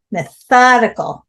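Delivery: "Methodical" with the stress on "thod"; stress on THA. Shown as a demonstration. Teacher modelling the stress on tha in Methodical. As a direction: punch the second syllable of "Methodical". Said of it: "the stress is on the tha".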